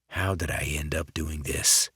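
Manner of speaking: breathy unvoiced whisper to himself; whispered thought. The speaker whispering his doubt to himself. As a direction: hush it like a private thought.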